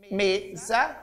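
"Mesa" said as two parts, me, sa; teacher's example word "Mesa", syllables held apart; split into syllables. Shown as a demonstration. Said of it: "sílaba final, sa, nelas".

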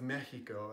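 Mexico as MEH-hee-ko; pretentious native pronunciation. Acted. Mocking newsreaders who say Mexico, pretentious Spanish pronunciation. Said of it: "it's just pretentious".

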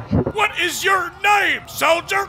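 slow, drawn-out drill sergeant demand; slow barking sergeant. Acted. Sergeant demands the recruit's name, slow and barking. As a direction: bark it slowly.

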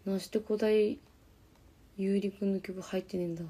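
easy Yamagata dialect grumble; thick local Yamagata intonation. Real, not acted. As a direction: speak in homely Yamagata dialect. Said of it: "山形弁ってこういう感じなんですよね。".

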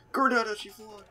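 high mock taunting shout; grenade warning yell. Real, not acted. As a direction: yell it like a playful threat. Throwing a grenade at friend.

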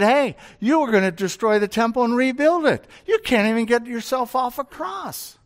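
a hint of a crowd taunting; mocking. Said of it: "so they all mocked him and said".

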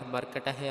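ਮਰਕਟ ਹੈ ending in retroflex "-teh"; final "teh" sounded. Shown as a demonstration. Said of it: "ਟਹਿ ਲਗਾ ਕਰਕੇ ਪਾਠ".

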